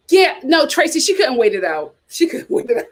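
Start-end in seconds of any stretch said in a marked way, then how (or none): 2.1-2.8 laughing. Real, not acted. Laughing at Sonia.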